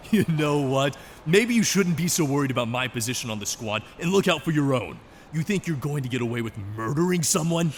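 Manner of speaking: heated argument. Acted. Heated argument over the killing.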